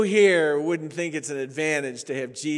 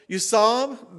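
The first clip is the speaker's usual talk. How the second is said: higher incredulous question; mock surprise; 4 semitones higher, 5 dB louder than usual. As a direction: ask in feigned amazement. Pastor questioning the weeper.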